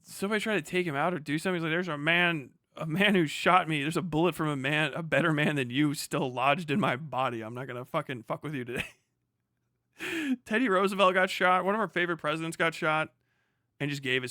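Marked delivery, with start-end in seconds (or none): 1.7-8.9 Andrew Jackson quote. Retold or imitated. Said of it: "one of his quotes was just like".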